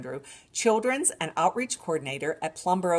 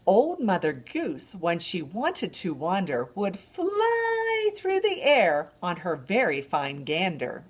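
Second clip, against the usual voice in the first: sing-song rhyme for babies; nursery rhyme recital; slower than usual. Acted. Librarian reciting a rhyme to babies, sing-song. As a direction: recite it brightly to a baby.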